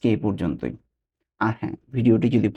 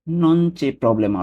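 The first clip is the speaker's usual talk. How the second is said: slow demo; 5 semitones higher, much slower than usual. Shown as a demonstration.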